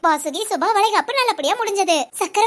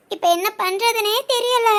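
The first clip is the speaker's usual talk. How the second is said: near tears. Acted. Veni alone, despairing.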